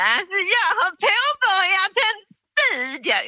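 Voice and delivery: very high, slow, drawn-out character voice; hammed-up high-pitched announcement; put-on party trick voice. Shown as a demonstration. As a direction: stretch it out high, like a silly impersonation. Demonstrates research talk as party trick.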